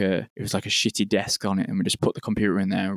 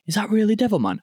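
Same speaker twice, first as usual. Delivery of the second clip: much higher, incredulous bouncer; disbelieving question; 12 semitones higher than usual. Retold or imitated. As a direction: ask it like you can't believe who's at the door.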